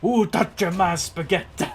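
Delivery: high, loud cartoonish outcry; over-the-top high meme exclamation. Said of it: "I forgot that meme".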